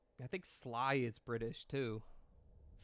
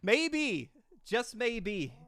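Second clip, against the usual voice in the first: dramatic hint; 10 semitones higher, 8 dB louder, much slower than usual. Acted. Dramatic teasing hint to chat.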